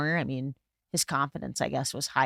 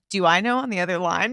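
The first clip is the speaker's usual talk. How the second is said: mock unsure caller; 3 semitones higher, 6 dB louder than usual. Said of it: "you say it like that".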